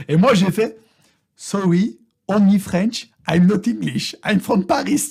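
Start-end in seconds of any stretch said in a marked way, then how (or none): 1.4-5.1 put-on thick French accent in English. Excusing himself to an American, hammed-up French accent. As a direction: play the clueless Frenchman, heavy French accent. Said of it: "j'ai bien joué avec l'accent français".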